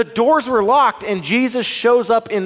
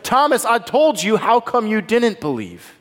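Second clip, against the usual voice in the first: mock scolding; 4 semitones higher than usual. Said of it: "scold Thomas".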